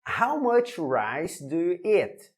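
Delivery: "How much rice do you eat?" slow and even; slow model question. Shown as a demonstration. Teacher reading the example question slowly to students. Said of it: "Let's go".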